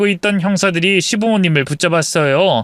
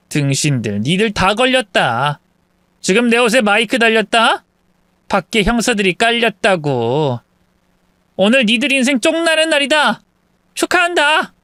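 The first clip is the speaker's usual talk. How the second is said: gloating taunt; 5 semitones higher than usual. Acted. Sister-in-law tells the family the police are outside, gloating. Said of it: "박장대소하면서 식구들에게 말했습니다".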